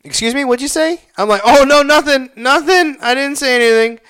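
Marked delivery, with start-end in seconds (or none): 0.0-1.0 high-pitched imitation of a confused woman; mock puzzled female stranger; puzzled woman bystander. Voices puzzled woman overhearing him. 1.4-4.0 high, loud, hurried reassurance; acted panicky backpedalling; flustered denial.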